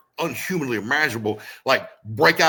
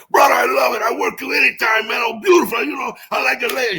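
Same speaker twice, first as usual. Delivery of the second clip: put-on loud, high Samoan accent; 12 semitones higher, 7 dB louder than usual. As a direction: gush it in a thick Samoan accent. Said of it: "that thick Samoan accent".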